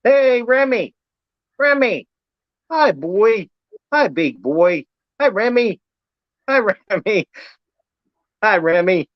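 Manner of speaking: high sing-song dog greeting; talking to a dog. Real, not acted.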